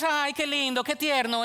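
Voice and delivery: high, sugary mock cooing. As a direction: coo it like a shallow sympathizer. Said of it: "Compasión no es". (arrullo burlón y agudo)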